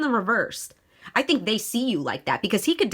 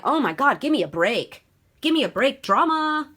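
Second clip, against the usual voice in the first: mock exasperation; 4 semitones higher than usual. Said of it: "they're like".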